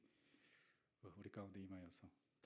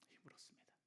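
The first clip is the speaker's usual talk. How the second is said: breathy whisper of renewal; 14 dB quieter than usual. Acted. Pastor telling of Elijah's renewal, whispered. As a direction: whisper it like a secret gift.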